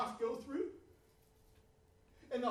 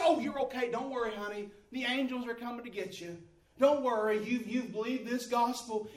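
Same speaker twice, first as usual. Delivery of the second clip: soothing pastor; 3 semitones lower than usual. Retold or imitated. Pastor soothing dying woman.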